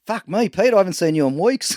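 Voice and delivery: high parrot punchline voice; lightly voiced parrot, lifted in pitch. Parrot greeting the dad, lightly put-on high voice. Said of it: "The parrot says".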